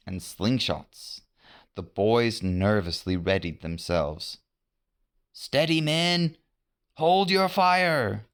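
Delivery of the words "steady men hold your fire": cautious warning. A narrator's reading. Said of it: "John warned them cautiously".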